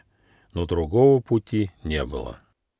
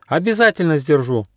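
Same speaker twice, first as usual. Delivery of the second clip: joyful promise; 8 semitones higher, 3 dB louder than usual. A narrator's reading. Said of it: "радостно пообещал Аука".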